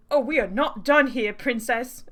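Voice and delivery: indignant fake British accent; amateur British accent, put out; bad British accent. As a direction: insist in a dodgy British accent. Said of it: "he deserves a really bad accent".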